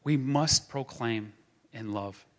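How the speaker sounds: gentle restatement. Acted. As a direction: ease it down, let love carry it.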